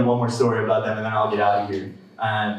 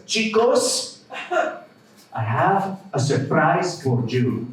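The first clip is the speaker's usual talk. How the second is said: put-on high Hispanic-accented call, then slow announcement; drawn-out Hispanic grandpa impression; 5 semitones higher, much slower than usual. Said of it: "when a Hispanic person says".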